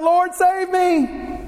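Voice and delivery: a touch of high pleading, slowed; lightly voiced plea, drawn out; sinking man's gentle plea; mild cry for help. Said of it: "he cried out".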